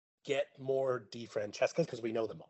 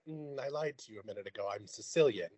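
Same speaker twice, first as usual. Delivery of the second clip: sheepish confession; 4 semitones lower, 5 dB quieter than usual. Retold or imitated. Retold confession.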